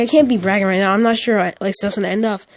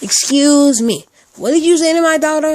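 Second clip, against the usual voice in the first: high, louder mock-outraged mother; indignant mother; 7 semitones higher, 5 dB louder than usual. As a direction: stretch out the "Excuse me", then pitch the challenge up high. Acted retake of angry mother.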